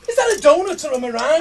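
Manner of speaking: put-on lightly done Scottish accent. Scot at the baker's window, lightly accented Scottish. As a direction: ask it as a puzzled Scot. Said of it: "involves a Scottish accent".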